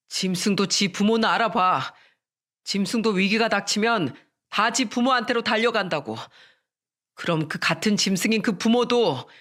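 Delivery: husband lightly acting out his rage at his wife; angry outburst. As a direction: scold her with restrained fury. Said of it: "바로 또 화를 냈어요".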